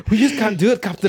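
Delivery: high, loud put-on British accent; mock British accent. Ship's engineer to the Captain, hammed-up British accent. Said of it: "our accents sound pretty good".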